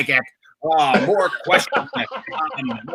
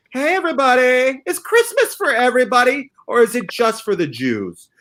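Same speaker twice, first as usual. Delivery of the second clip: announcer hype; 8 semitones higher than usual. Acted. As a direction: pump up the crowd with the question. Host announcing the question.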